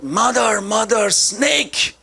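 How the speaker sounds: put-on child crying out mother, rising to a high pitched cry on snake; a boy shrieking for his mother in fright, pitch jumping up; retold scream. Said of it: "he screamed out".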